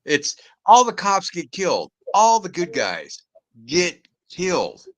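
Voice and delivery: high indignant complaint about the plot; incredulous rant. Real, not acted. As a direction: drag out the disbelief. Ranting about cops killed.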